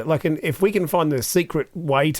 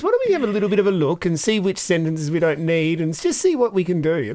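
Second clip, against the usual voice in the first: breezy upbeat. Retold or imitated. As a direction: keep it light and friendly for the clients. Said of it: "I'm like".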